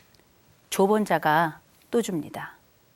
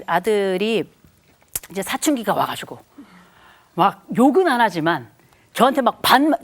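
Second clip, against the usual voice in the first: ordinary talk, nothing marked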